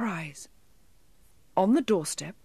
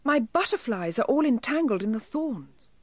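crying elf; 6 semitones higher than usual. A narrator's reading. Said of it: "he cried".

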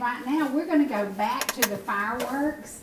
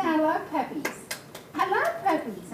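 put-on high sing-song baby voice; speaking for the baby; 6 semitones higher than usual. Grandma voicing the baby's words, high baby voice. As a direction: answer as if you were the baby.

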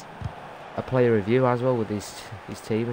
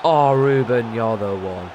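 excited; 5 dB louder, slower than usual. Real, not acted. Cheering his player.

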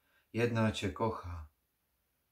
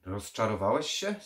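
louder, unjoking question; dead serious; 2 semitones higher, 7 dB louder than usual. A narrator's reading. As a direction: ask it in full earnest. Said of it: "bez cienia żartu w głosie".

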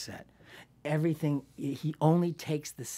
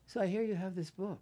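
higher, imitated Southern speech; Southern accent; 6 semitones higher than usual. Co-star asking actress about her book, Southern accent. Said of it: "he started talking with the Southern".

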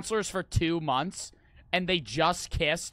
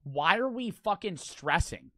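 drawn-out exasperation; 2 semitones higher, slower than usual. Real, not acted. Exasperated at slow enemy.

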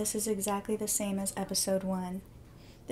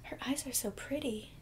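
softer, hushed admiration; admiring whisper; 2 semitones higher, 6 dB quieter than usual. Real, not acted. Viewer whispering about a character's pretty eyes. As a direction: whisper it as if in awe.

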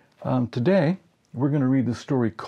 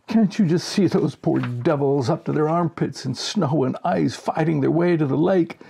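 gleeful cackling director; 5 semitones higher than usual. Acted. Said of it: "He slides from his chair, shrieking".

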